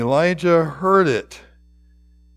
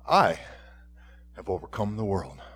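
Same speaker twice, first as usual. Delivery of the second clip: fast, voiceless whisper, much softer; 7 semitones lower, 8 dB quieter, faster than usual. Real, not acted. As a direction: hush it like a secret promise. Reading Jesus' words, whispering.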